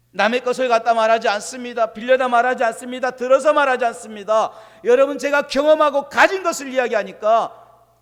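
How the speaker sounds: loud, insistent, each line hit hard; emphatic preaching. Real, not acted. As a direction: hammer each clause home. Emphatic sermon parallel lines.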